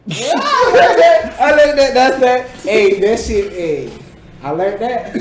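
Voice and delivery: loud, high hype shout; excited bragging. Real, not acted. Speaker shows off Spanish greeting to friends, excited loud boast. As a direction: burst out proudly, shouting. Showing off a learned Spanish flirting line.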